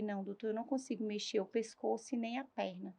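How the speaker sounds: soft, weak patient's answer, retold; resposta fraca. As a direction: tell the doctor quietly, with little strength. Paciente responde ao médico na UTI. (voz baixa de paciente, reencenada)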